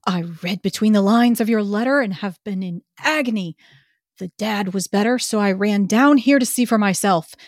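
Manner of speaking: breathless-sounding theatrical whisper of relief; eager whisper. Acted. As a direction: whisper it eagerly, drawing out the words. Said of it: "saying in an eager whisper".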